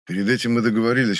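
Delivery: usual speaking voice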